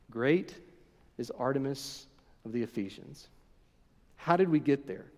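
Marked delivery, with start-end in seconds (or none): 0.1-3.3 hushed echo. Shown as a demonstration. Preacher echoing the mob chant for his congregation, softly. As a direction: let the mob's chant fade to a hush.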